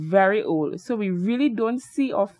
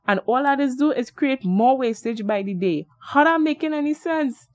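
exclaiming; 4 semitones higher than usual. Acted. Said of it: "exclaimed Derek".

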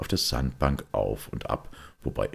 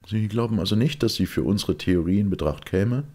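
higher, louder, eager questioning; Smith; 7 semitones higher, 4 dB louder than usual. Acted. Smith pressing Father Brown about his theory, higher and louder. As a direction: press the priest with a keen question.

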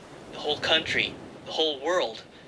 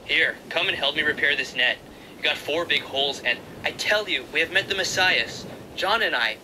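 eager Andrew; 2 semitones higher than usual. Acted. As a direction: urge your brother, breathless with news. Andrew's voice in the story.

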